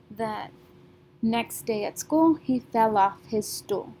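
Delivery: two beats a line: next, school, then fell, stool; stressed beats. Shown as a demonstration. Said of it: "two beats".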